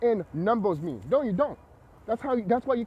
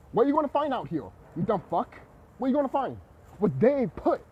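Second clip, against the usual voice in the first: raised, higher, scornful questions; angry rant; 5 semitones higher, 3 dB louder than usual. Real, not acted. Ranting at people who skip the research, scornful and raised. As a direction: jab each question at them.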